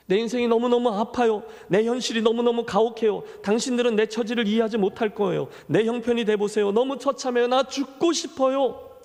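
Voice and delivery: pained cry. Acted. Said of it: "그녀의 그 외침은 내가 아프다는 거죠".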